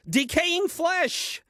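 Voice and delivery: a mocking, outraged echo of her words; incredulous exclamation. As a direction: toss it back in disbelief, as if it's absurd. Adam scoffs at Eve's vulture diet.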